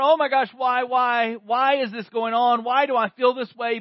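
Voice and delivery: distressed person. Retold or imitated. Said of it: "the person is sitting there going".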